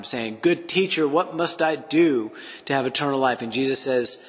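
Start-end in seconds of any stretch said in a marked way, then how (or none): 0.4-3.4 higher, mildly imploring retold plea; crying out. Rich young ruler calls to Jesus as teacher, mildly crying out. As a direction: act out a seeker crying out, lightly. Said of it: "crying out to him".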